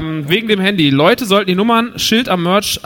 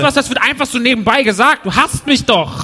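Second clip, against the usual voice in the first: mock outrage; 5 semitones higher than usual. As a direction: pretend to be hurt that your film was skipped. Empört über vergessene Filme. (gespielte Empörung, höher und lauter)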